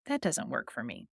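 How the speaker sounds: low, soft and calm. Shown as a demonstration. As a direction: state it calmly, without any fight. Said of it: "you can very calmly say".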